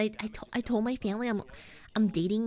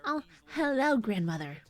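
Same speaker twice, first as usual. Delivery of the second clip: playing overly proper; mock-formal grandchild. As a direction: greet grandmother with exaggerated formality. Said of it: "That's not how I talk to her".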